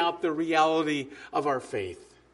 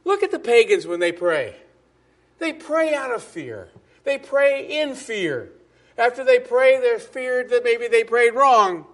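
rising preaching intensity; 3 semitones higher, 5 dB louder than usual. Acted. Preacher building on pagan fear.

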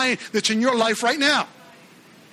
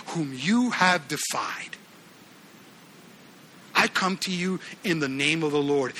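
solemn declaration; 5 semitones lower, 3 dB quieter than usual. Acted. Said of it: "He says in verse forty-five".

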